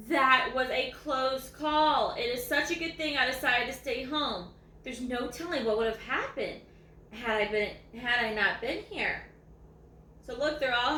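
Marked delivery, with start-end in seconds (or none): 0.1-9.3 lively read-aloud voice, savouring each line; story reading. A narrator's reading. Reading a dog's story to viewers, lively read-aloud.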